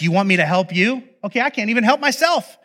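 high-pitched exasperated rant; snapping, yelling. Acted. Widow at the end of her rope yelling at prophet. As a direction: lose it in a worked-up tirade. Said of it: "she starts yelling at him".

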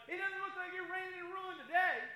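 a loud, fed-up challenge to God; doubting complaint to God. Retold or imitated. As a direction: throw it up at heaven, fed up. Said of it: "we're looking around going".

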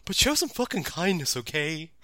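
a mellow, baked lecture on kindness; stoner Gabumon. Retold or imitated. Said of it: "sound more and more like a stoner".

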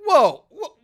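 high, loud, startled double take; stunned whoa. Retold or imitated. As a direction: stop the story in disbelief. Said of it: "So I'm like".

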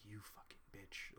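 whispered curse through the teeth; furious whisper. Retold or imitated. Cursing the smug inner voice, in a whisper. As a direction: hiss it under the breath, furious.

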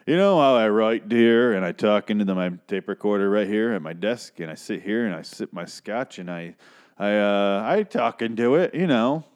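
imitated evasive husband, rambling; covering up. Husband explains his writing to his wife, mock evasive rambling. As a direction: ramble as if badly hiding an affair. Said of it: "sounds like he's trying to cover up an affair".

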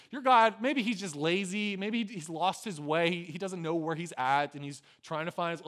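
acted, lightly jeering; mocking. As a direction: tease them with one guess after another. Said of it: "he's making all this mockery towards them".

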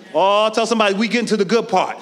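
call to the church. Acted. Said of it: "repeated call to congregation".

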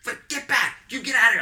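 high, loud mock scolding; imitated bartender's order. Imitating bartender running out at the performer, urgent ordering. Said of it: "the bartender comes running out on me".

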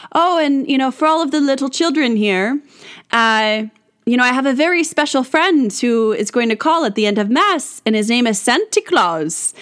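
lightly put-on Irish accent; Father O'Reilly. Priest telling children at Mass about his special friend, light Irish accent. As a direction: imitate an Irish priest with a hint of brogue. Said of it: "kind of an Irish accent".

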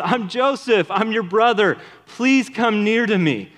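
a touch of a forgiving brother; gentle Joseph. Pretend. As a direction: welcome the brothers close, kindly. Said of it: "No, instead he says".

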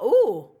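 loud imitated "ooh"; mock startled ooh. Judge after farting as he stands, mock startled. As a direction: let out a loud, playful ooh. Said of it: "and he's all".

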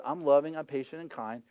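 gentle God voice. Acted.

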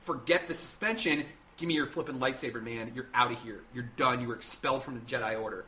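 a touch of furious Mace; angry. Retold or imitated. Mace Windu expels Anakin, a touch of mock anger. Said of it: "he says".

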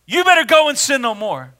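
loud, high-pitched scolding order; stern command. Shown as a demonstration. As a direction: deliver it as a forceful warning. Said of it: "He could have said it".

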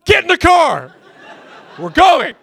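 put-on the dad hurrying the kids out, laughing; laughing shout. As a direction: yell it while laughing at the chaos. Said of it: "I was like".

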